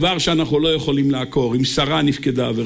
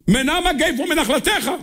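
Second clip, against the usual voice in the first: very high, slow mock supplication; imagined insistent prayer cry; 14 semitones higher than usual. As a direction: chant it out as a desperate plea. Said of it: "היינו חוזרים על זה מאה פעם".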